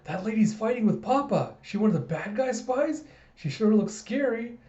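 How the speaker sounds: put-on high little-kid voice; high-pitched, questioning kid character; Anya. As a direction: chatter in a high child's voice. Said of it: "you have Anya going".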